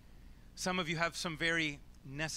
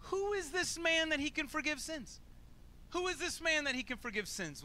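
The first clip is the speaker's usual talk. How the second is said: higher, mocking disbelief in the question; sarcastic; 12 semitones higher than usual. Bystander mutters doubt about Jesus, sarcastic and scornful. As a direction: sneer it like a doubter in the crowd. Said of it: "talks under his breath sarcastically".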